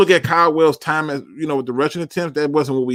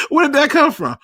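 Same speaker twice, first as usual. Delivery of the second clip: baffled laugh; 11 semitones higher, 3 dB louder than usual. Real, not acted.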